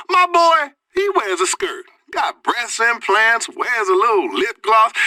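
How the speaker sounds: shouting his outrage down the phone line; outraged shout. Acted. Caller to the radio host, shouting in outrage. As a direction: yell it like a scandalized dad.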